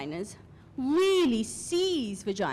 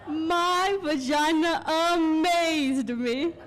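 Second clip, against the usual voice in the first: awestruck amazement; 5 semitones higher, 3 dB louder, slower than usual. Acted. Awestruck climax of a performed monologue.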